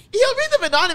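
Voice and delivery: loud, laughing through words. Real, not acted. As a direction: say it mid-laugh. Said while laughing loudly.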